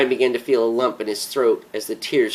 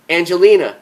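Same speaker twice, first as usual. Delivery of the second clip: stern "Angelina," pushed higher and louder with a firm fall; firmer, louder "Angelina," cutting her off; more sternly; 6 semitones higher, 7 dB louder than usual. Acted. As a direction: clip her name to make her stop: "Angelina,". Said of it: "a little more sternly".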